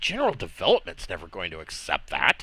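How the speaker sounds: soft whisper under the breath. A character in the scene says this in a whisper. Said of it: "And he kind of whispers".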